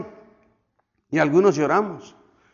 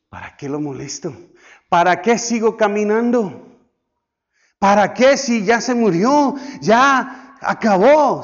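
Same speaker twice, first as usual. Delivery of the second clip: despairing give-up; 4 semitones higher, 3 dB louder than usual. Pretend. Father's imagined despairing doubt.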